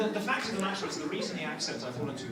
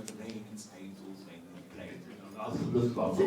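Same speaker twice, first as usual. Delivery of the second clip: British diction exercise; 7 semitones lower than usual. Retold or imitated. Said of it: "I did all these exercises imitating her".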